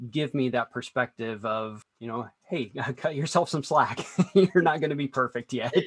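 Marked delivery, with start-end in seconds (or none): 2.5-5.7 light coach's advice broken by chuckles; laughing reassurance. Acted. Imagined coach telling student to ease up, laughing. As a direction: chuckle through a gentle let-off.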